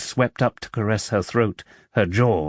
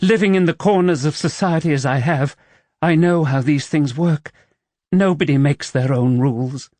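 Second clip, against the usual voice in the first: higher heroine voice, bitter; woman's voice; 5 semitones higher than usual. Acted. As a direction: voice her, worldly and resigned.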